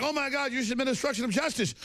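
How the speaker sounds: hammed-up liberal outrage; mock outrage. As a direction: parody a scandalized Democrat. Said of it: "They're like".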